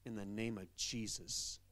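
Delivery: low, soft, slow mock-solemn pronouncement; mock misuse of reprove. Congregant misusing the word reprove at home, mock-solemn. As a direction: pretend to solemnly reprove someone. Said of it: "You're gonna go home and like".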